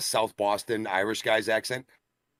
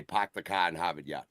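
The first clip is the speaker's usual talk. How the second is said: Boston catchphrase with dropped r's; Boston accent; 4 dB quieter than usual. Shown as a demonstration. Tired of always saying it for others, Boston accent. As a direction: do the stock Boston accent line. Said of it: "I finally wanna hear somebody else say".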